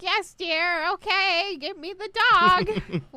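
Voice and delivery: put-on high, loud, slow confused old lady; old mom voice. Imagining the host's senile mom, high loud demanding old woman. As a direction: shout it like a muddled elderly mother. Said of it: "You'd be like".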